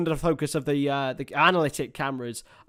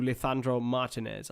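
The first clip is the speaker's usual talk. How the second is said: Lisandro Martinez with a Spanish lisp, "Lithandro"; Spanish pronunciation; 2 semitones lower, 5 dB quieter than usual. Real, not acted. Commentator slipping into Spanish for the player's name, Spanish pronunciation. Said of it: "I went Spanish for him".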